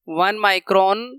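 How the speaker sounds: "वन माइक्रोन" repeated slowly, rising on "माइक्रोन"; teacher repeats "वन माइक्रोन" slowly with a rise. Shown as a demonstration. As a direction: drag out "वन माइक्रोन" slowly so the class notes it.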